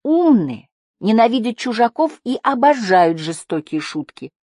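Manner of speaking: loud, high wail of alarm; high-pitched fretful lament. A narrator's reading. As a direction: wail it high, stressing how awful it is. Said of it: "запричитала Прин".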